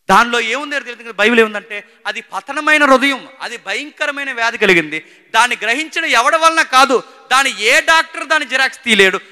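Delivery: high, loud, emphatic sermon delivery; impassioned preaching. Real, not acted. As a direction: preach it at full force, driving each point. Preaches at full force.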